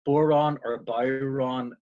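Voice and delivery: "boron or Byron" said slowly, each word a separate Irish variant; unhurried demo of "boron" versus "Byron"; two regional pronunciations. Shown as a demonstration. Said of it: "but it's pronounced bor".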